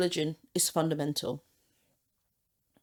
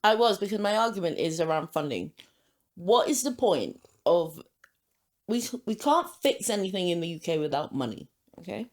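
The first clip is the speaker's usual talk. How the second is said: chewing gum; 3 semitones lower than usual. Real, not acted. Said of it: "Sorry, I'm chewing gum".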